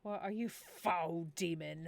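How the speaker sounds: mock-grand challenge to a demon; lightly hammed-up accusation; dramatic accuser. Villager challenging a supposed demon, mock-dramatic accusation. Acting out dialogue with Hob Elf.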